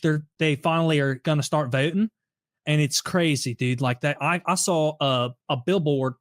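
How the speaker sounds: lightly voiced Philadelphia local accent; a hint of a thick Philly guy chatting to a reporter; understated imitation of a Philly accent. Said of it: "just the most over the top Philly accent".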